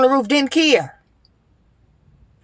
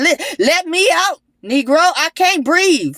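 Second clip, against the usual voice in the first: desperate plea; 5 semitones higher than usual. Retold or imitated. Pleading trapped in bag.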